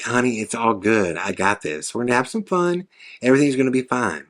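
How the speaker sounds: put-on soft, low amateur Southern accent. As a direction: imitate a reassuring Southern woman, lightly. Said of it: "That's my shitty attempt at a Southern accent".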